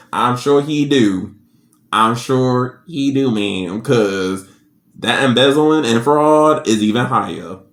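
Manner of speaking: slow, sly, sarcastic agreement; sarcastic retort. Retold or imitated. The speaker mocking the bragging mom, slow and sarcastic. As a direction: drag it out with mock sympathy.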